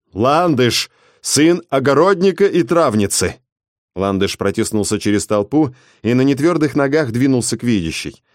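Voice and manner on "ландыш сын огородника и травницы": forced shout. Acted. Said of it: "заставил себя выкрикнуть".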